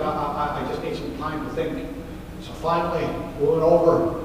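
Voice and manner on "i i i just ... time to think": quiet, emotional. Retold or imitated. Moved man asks for time.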